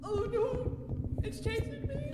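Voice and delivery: high, scared cry; panicked. Real, not acted. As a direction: shriek that it's chasing you. Monster chasing them in game.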